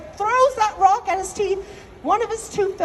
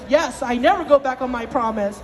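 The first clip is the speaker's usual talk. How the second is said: god's reply; 5 semitones lower than usual. Acted. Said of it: "He goes".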